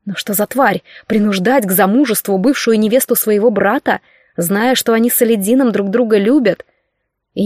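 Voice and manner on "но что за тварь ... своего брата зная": plain reading voice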